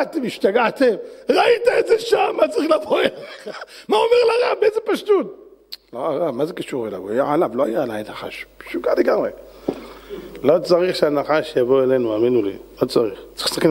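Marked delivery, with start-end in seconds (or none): 1.3-5.4 high, laughing words; laughing disbelief. Real, not acted. Preacher laughs at the driver's naivety, high laughing voice. 5.9-9.3 soft, lowered voice; hushed reply. Acted. Driver answers the rabbi, hushed and soft. Driver quietly, then whispered aside.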